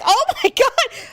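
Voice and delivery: high, laughing oh my god; laughing teen disbelief; mock shock. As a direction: gasp it through a giggle. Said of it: "We're like".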